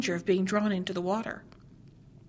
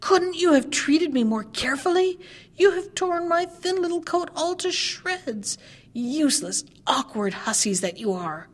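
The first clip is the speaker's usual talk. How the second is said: higher, screechy little dwarf voice; screeching dwarf; 5 semitones higher than usual. A narrator's reading. Dwarf scolds the girls who saved him, screeching. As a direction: screech at them like an ungrateful imp. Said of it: "he screamed in a screeching voice".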